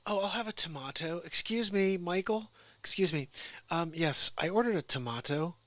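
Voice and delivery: a hammed-up customer flagging down Michael for a tomato; fussy customer. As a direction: call the waiter like a picky diner. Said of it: "the guy who's around going like".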